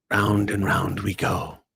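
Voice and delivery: a hint of a slow, low sing-song taunt; lightly voiced villain. The Master taunting the dying Doctor, slow and low. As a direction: tease it slowly into their ear. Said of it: "the master's voice in your ear".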